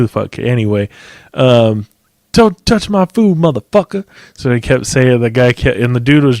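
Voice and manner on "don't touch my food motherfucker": high-pitched mock outrage; feisty, put-on high voice; worked-up impression of old man. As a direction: do a riled-up skinny old man. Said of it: "he was all G'd up and shit".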